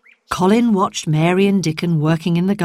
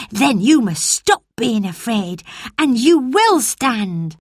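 put-on boy Dickon; 5 semitones higher than usual. Dickon encourages.

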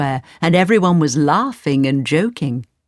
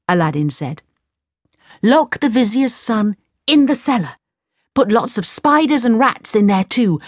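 Aladdin giving orders; 4 semitones higher than usual. Acted.

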